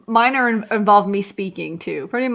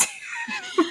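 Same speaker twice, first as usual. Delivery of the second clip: high, slow, laughing; 9 dB quieter than usual. Real, not acted. Telling friends husband is annoyed, laughing. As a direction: let it dissolve into laughter.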